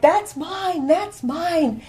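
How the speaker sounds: high, loud grabbing cry; eager cry. Acted. Greedy woodman cries out to Mercury, high and loud. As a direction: shout it like you're snatching the prize. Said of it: "the fellow cried".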